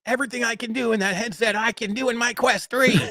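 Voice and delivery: high, put-on Canadian accent voice; mock Canadian accent. Host mimicking Todd's words, in a mock Canadian accent. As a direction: tease him in a hammed-up Canadian accent. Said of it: "your exact Canadian words".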